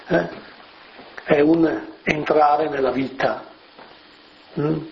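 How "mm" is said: usual speaking voice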